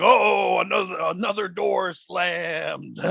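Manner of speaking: high, slow mock-amazed gasp over a slammed door; mock amazement. Mocking ghost hunters marvelling at a door slam, hammed-up amazement. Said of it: "And they're going".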